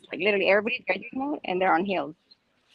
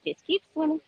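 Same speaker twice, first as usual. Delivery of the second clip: high, sing-song Dory voice; Dory impression; 6 semitones higher, 4 dB quieter than usual. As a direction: chirp it like the cartoon fish. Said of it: "Like Dory".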